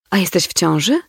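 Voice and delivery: a hint of stunned disbelief; choked-out question. A narrator's reading. Mother, stunned, chokes out her question to her daughter. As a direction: squeeze the words out, caught off guard. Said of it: "wykrztusiła zupełnie".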